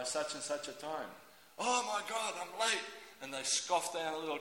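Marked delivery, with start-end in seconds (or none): 1.6-2.8 raised-pitch flustered exclamation; mildly panicked commuter; mock panic. Worker realising they're late for the station, mock panic.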